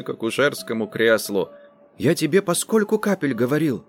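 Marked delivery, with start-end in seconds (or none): 2.0-3.8 choked, half-strangled question; doctor questioning the woman, choked voice. Acted. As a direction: squeeze the words out in dismay. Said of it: "задушенным голосом заговорил я".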